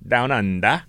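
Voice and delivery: mock Australian, dropped final R; attempted Australian accent. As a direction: try out a shaky-footed Australian accent. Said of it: "It sounded more Jamaican than".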